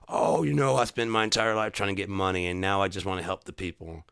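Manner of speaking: mock politician. Mocking politician's claim.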